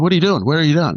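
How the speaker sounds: retold urgent question, pitched high; alarmed question. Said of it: "And I said".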